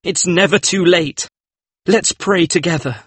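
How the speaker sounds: high, urgent entreaty; pleading. A narrator's reading. Painter begs Dorian to pray with him, urgent plea.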